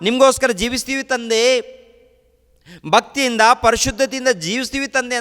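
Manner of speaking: high, loud desperate plea to God; pleading prayer. Acted. Believer pleading with God, high and loud. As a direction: beg God not to send you there. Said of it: "ಅಂತೇಳಿ ನಾವು ಮೊರೆ ಇಡ್ತಾ ಇದ್ದೀವ".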